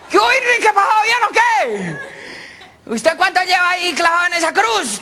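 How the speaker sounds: high, loud parrot squawk; chatty parrot. Acted. Parrot hails Christ as a fellow prisoner, squawking. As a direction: squawk the greeting and question.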